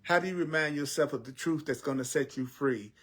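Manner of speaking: earnest, rhythmic preaching over music; spiritual teaching. Acted. Teacher urges listeners to remember the truth, earnest preaching. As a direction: preach it steadily.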